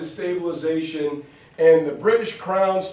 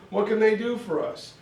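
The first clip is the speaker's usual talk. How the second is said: indignant Indian objector; 4 semitones higher, 3 dB louder than usual. Retold or imitated. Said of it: "Others said".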